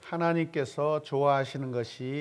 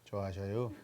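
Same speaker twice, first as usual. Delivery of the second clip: Daejeon dialect; 5 semitones lower, 7 dB quieter than usual. Shown as a demonstration. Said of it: "대전 버전으로 하면은".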